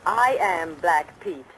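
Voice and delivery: slow, weighty unmasking; dramatic reveal. Acted. Marlena revealing to the boys she is the outlaw, slow and dramatic. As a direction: let each word land like a confession.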